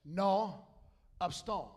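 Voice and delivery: slang South Louisiana French accent. Shown as a demonstration. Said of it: "in South Louisiana, it would sound like this".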